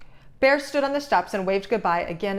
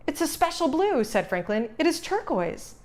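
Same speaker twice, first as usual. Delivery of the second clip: proud; 7 semitones higher than usual. A narrator's reading. Franklin proud of knowledge.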